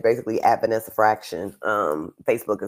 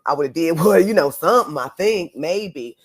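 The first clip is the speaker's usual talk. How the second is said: retold uncertainty; 8 semitones higher, 6 dB louder than usual. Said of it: "now it's not a maybe".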